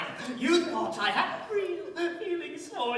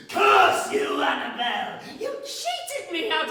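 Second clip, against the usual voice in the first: furious curse. Acted. Unmasked villain curses his accomplice in a furious burst. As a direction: lash out in rage.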